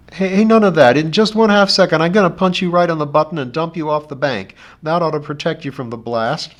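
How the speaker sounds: loud, urgent and rough. A narrator's reading. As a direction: bark it out urgently. Johnny urgent and bossy.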